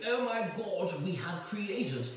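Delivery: mock a plummy Eton boy; posh schoolboy. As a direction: Eton boys admiring their dessert, hammed-up posh toff voice. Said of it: "and they go".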